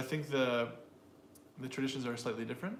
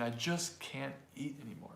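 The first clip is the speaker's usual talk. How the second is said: "just" given the emphasis; stress on JUST; 4 dB quieter than usual. Shown as a demonstration. Teacher recalls an earlier example, "just" emphasized. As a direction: lean on the word "just". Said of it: "could have stressed the word just".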